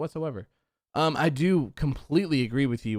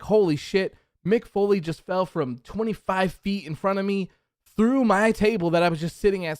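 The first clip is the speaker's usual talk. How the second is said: excited commentator; 6 semitones higher than usual. Retold or imitated. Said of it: "They're screaming".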